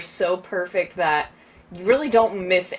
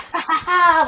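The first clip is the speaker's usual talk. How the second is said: higher-pitched retold cheering laugh; imitated laughing; 10 semitones higher, 3 dB louder, much faster than usual. Podcast guest retelling her reaction to a film death, laughing. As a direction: act out laughing at the screen. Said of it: "laughing because I was like".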